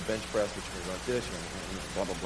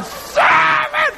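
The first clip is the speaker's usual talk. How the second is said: much higher, louder desperate yell; screaming the count; 5 dB louder than usual. Retold or imitated. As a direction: scream the rep under the bar. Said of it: "a guy screaming at him".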